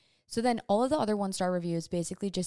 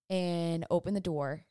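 ordinary talk

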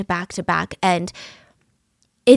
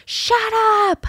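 much higher snapped mock yell; mock scream; 12 semitones higher than usual. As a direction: fling it at him in imitation. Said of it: "she screams".

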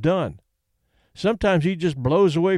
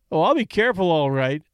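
smiling. Acted. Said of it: "Danny smiled".

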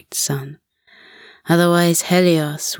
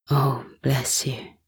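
husky deep voice; 3 semitones lower, 5 dB quieter than usual. Acted. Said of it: "with a husky, deep voice".

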